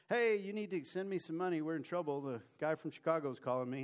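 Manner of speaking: high opening hey, easing down; pleading mock phone call; urgent margin call. Broker begging a client to send money, urgent.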